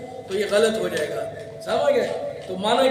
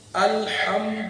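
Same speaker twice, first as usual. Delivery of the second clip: teacher's slow demo; slow model recitation; much slower than usual. Shown as a demonstration. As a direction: draw the word out slowly. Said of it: "جلد بازی نہیں کرنی".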